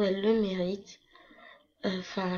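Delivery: breathy whispered aside. Real, not acted. Whispering to viewers about her friend Milo. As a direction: drop to a whisper for emphasis.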